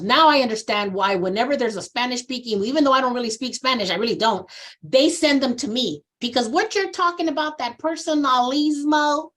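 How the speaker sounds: imitating a Southern woman's accent with an amused lilt. Woman at the back of the training answers in a Southern accent. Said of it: "with a Southern accent".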